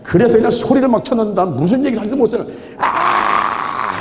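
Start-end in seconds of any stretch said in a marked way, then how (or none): 2.8-4.0 drawn-out, voiceless mock scream; imitated prayer shout. Preacher re-enacting his desperate first prayer shout, mock scream. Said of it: "막 소리만 쳐댄 거예요".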